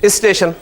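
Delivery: اسٹیشن said with a leading i, isteshan; اسٹیشن with prothetic i; Karachi pronunciation. Shown as a demonstration. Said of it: "Karachi میں کیا پروناؤنس کرتے ہیں".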